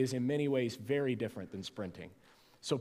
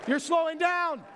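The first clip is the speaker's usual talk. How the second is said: aerobics instructor; 13 semitones higher than usual. Acted. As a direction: pump them up like a workout instructor.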